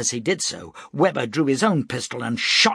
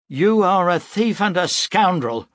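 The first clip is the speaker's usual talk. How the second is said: angry accusation; 9 semitones higher, 7 dB louder than usual. A narrator's reading. Broom accusing Weber.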